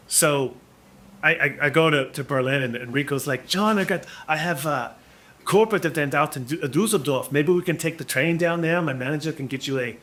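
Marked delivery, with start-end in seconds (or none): 3.5-10.0 put-on a rough, half-joking German accent; imitating a German friend, loosely; half-assed German accent. Musician friend offers a trip, in a loose German accent. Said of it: "That's my half-assed German accent".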